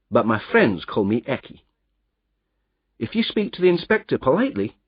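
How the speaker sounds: a lightly voiced Scottish roadman, easygoing; plain working man offering a job, friendly. Roadman tells the narrator about the job, lightly voiced.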